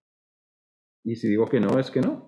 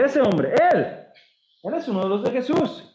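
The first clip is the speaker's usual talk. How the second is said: put-on accusing servant girl; 9 semitones higher than usual.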